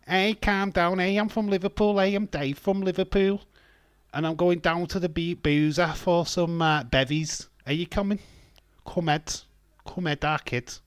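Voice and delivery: high, loud Liverpool impression; hammed-up Scouser inviting mates to the pub; Scouse accent. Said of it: "that's my Scouse accent".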